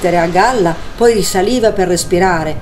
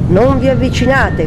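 mild storybook cry; 7 semitones higher than usual. A narrator's reading. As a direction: cry keep-away with restrained volume. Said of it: "gridava Olaf". (grido d'avvertimento contenuto, voce acuta)

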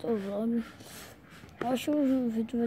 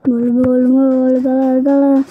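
pained shout; 13 dB louder, much faster than usual. Real, not acted. Still reacting to eye hit.

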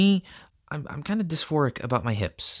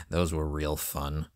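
slow, very low, dry sarcasm; sarcastic understatement in a deep, softer voice; deep-voiced sarcasm; 10 semitones lower, 5 dB quieter, slower than usual. Real, not acted. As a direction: drop deep and draw out the sarcasm. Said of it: "I like the deep voice for doing the sarcasm".

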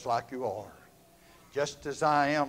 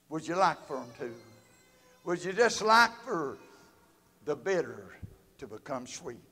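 rising, pleading invitation; tender appeal with a catch in the voice; pleading altar call. Acted. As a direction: coax them tenderly toward the altar.

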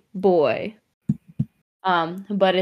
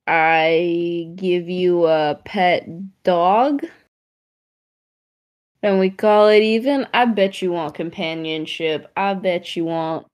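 put-on slightly British accent. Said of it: "You went a little British there".

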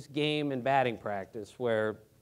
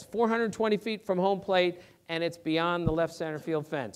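usual speaking voice

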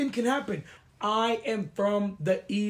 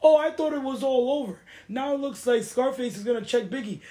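playing dumb; 3 semitones higher than usual. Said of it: "playing dumb in the confessional".

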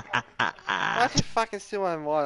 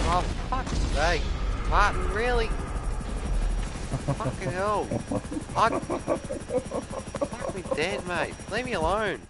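angry; 6 semitones higher, much slower than usual. Real, not acted. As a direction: rage at being targeted. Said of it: "He's so angry".

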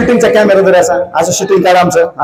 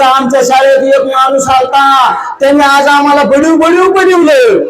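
lightly acted excited pupil, higher pitch; pupil telling parents; 4 semitones higher than usual. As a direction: report it like a schoolchild, stretching the end. Voices pupils reporting to parents at home.

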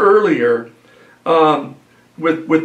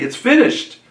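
victory cry; 7 semitones higher than usual. Shown as a demonstration. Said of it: "It was a shout, really, of victory".

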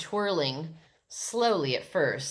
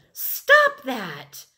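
loud, raised-pitch command; shout; 7 semitones higher, 7 dB louder than usual. A narrator's reading. Sheila orders the twirling kids to stop, shouted. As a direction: shout to make them stop. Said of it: "Sheila shouted".

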